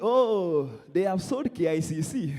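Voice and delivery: drawn-out "oh" of complaint; mock complaining. Comedian mimics Kenyans over a sold building, mock complaining. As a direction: imitate someone lamenting. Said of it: "You guys are complaining".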